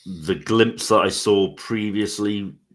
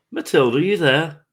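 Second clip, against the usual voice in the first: calling into the dark, voice raised; 9 semitones higher, 4 dB louder than usual. Acted. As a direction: call out to find her. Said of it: "and I'm gonna call out".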